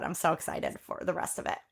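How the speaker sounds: unvoiced, excited whisper. Real, not acted. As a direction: breathe it out in a whisper. Excited aside.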